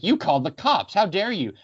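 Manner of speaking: mildly acted parental outrage; mock indignant scolding, rising in pitch; livid mom, imitated. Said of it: "livid with Alex".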